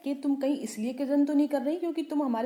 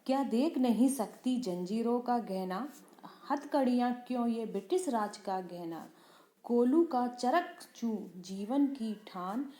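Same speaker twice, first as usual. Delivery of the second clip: poem recitation. Shown as a demonstration. Teacher recites poem stanza.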